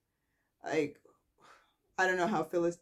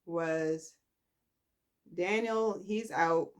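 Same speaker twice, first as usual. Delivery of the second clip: ordinary talk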